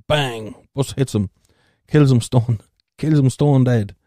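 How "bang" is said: usual speaking voice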